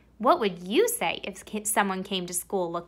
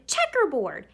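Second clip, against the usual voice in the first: put-on kid shouting; 5 semitones higher than usual. Classmate shouting at Camilla, mild teasing shout. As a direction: call it out like a playground kid. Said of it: "Someone else shouted".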